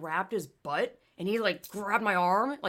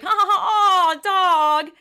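high, loud put-on laughter; mock cackle; 12 semitones higher, 10 dB louder, slower than usual. Everyone at the race laughing at the dog, mock cackle. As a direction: laugh like a braying crowd. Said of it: "And everyone's like".

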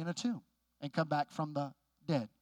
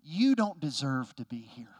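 slow, drawn-out imitation of disdain; a touch of looking down on someone; mock snideness, leaning on the first word; mildly snide; 5 semitones lower, 4 dB louder, slower than usual. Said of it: "a little bit of just a snideness".

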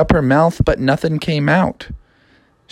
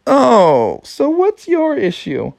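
higher, eager frog voice; Froggy voice; 9 semitones higher, slower than usual. Acted. Froggy inviting the princess, higher voice. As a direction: sell the school to her. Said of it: "they said to her".

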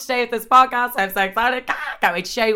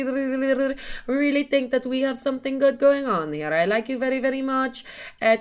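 mock foreign-accented suitor, pitched up; Frederic; 3 semitones higher than usual. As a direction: read out a love message in an exaggerated foreign accent. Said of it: "What fucking accent is this".

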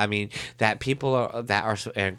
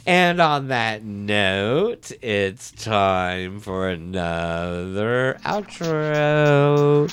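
slow show sign-off voice; outro announcer read; slower than usual. Acted. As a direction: read the podcast outro slowly.

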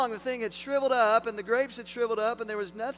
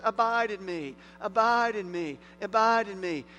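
each abide hit firmly, a little louder each time; imperative repetition; 3 dB louder than usual. Acted. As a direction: press the command home three times. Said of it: "in the imperative voice".

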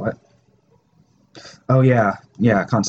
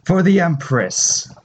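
slow rallying war cry; battle cry; 6 semitones higher, slower than usual. Acted. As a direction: declare it like a loyal soldier.

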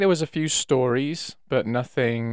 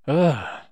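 groan of disappointment; 4 semitones higher than usual. Shown as a demonstration. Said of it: "I'd make a noise".

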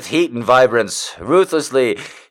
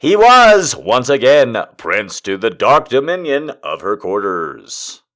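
a more dramatic read of the line; a touch of grandeur on the dark dominion; different voice. Shown as a demonstration. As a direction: declaim it as a new character. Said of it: "say that line in a different voice".

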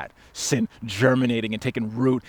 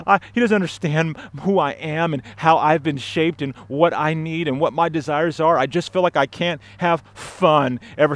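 acting out a frustrated churchgoer, raised pitch; frustrated complaint; 4 semitones higher than usual. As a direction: pour out grievances to the pastor. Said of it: "you're frustrated and you're like".

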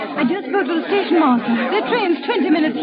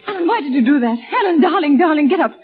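anxious pleading. Acted. Pleads over fallen Alan.

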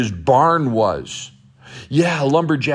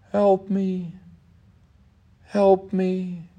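put-on boy calling; 6 semitones higher, much slower than usual. Trapped boy's voice heard.

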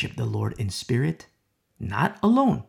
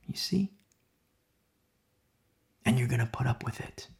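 hushed whisper for emphasis; 2 semitones lower, 7 dB quieter than usual. Acted. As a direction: drop to a whisper to draw them in. Preacher drops to whisper.

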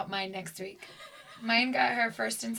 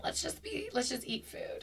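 whisper; 9 dB quieter than usual. Retold or imitated. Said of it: "and I'm like".

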